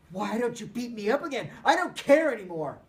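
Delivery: loud high taunting challenge; angry boy goading at full voice; goading shout. Acted. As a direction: dare him to hit you. Fight, Peter goading Cole.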